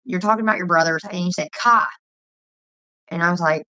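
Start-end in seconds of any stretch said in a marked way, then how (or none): 1.5-1.9 put-on "car" as "kah" in East Coast accent, loud; imitated East Coast accent. Quoting friend talking about brothers, imitated East Coast accent. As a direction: drop the R like an East Coaster, punch it out. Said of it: "the way you say things".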